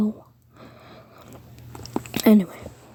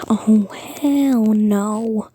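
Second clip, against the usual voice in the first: slow, stretched-out refusal; defiant refusal; much slower than usual. Acted. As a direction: drag each word out in mock defiance. Acted defiant reaction in story.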